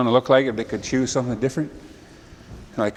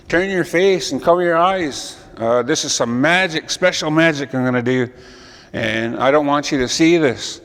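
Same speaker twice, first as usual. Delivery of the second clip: mild commanding creator; 2 semitones higher than usual. Acted. Creator orders the animals to look away, mildly commanding. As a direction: announce the magic to the crowd.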